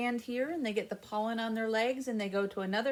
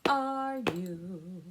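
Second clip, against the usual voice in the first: sing-song hello to the class; greeting the children; 3 semitones higher, 4 dB louder than usual. Shown as a demonstration.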